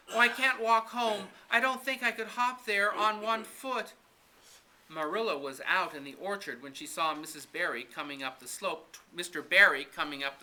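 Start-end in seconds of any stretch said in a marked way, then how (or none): 0.1-3.9 higher and louder, a lightly acted pained complaint; pained lament. Injured Anne telling Missus Barry, mild pained lament. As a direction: complain of the hurt ankle, mildly acted. Anne hurt after falling.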